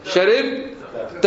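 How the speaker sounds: slow sharibta with -ta ending; second person masculine ending. Shown as a demonstration. Teacher conjugating with students, slow sharibta. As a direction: draw out sharibta. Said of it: "المخاطب".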